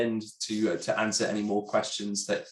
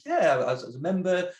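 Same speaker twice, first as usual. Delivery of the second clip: imitating the fan; 8 semitones higher than usual. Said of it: "It's like".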